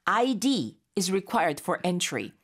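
slow, clear lesson read; slow model sentence. Shown as a demonstration. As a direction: spell it out slowly for learners. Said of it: "라고 한다면".

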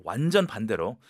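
normal talking voice

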